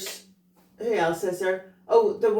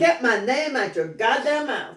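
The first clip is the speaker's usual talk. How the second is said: sassy comeback; 4 semitones higher, 4 dB louder than usual. Shown as a demonstration. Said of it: "That's wrong".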